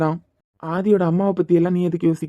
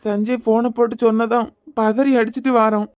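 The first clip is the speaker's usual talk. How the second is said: frantic worry; 4 semitones higher than usual. Acted. Parent bursting into the hospital room, alarmed and upset. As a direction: rush in upset over the injured daughter.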